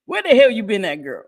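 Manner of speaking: playful call-out. Retold or imitated. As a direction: holler at her in jest.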